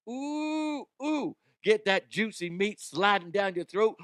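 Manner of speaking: high, raspy wrestler ooh-yeah growl; over-the-top wrestler drawl about meat; Macho Man impression. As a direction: ham up a wrestler promo. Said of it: "Okay, Macho Man".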